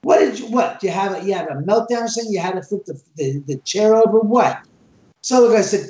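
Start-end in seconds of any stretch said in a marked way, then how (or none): 0.0-4.6 mock upset. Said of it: "and I get upset".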